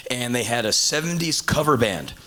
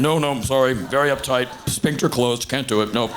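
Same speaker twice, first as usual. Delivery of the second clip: a hint of a prim, buttoned-up conservative turning her down; lightly played stiff refusal, laughing through it; stern uptight refusal. To the performer, refusing to join in, a touch of stern uptight prude. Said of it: "the most stern Republican face".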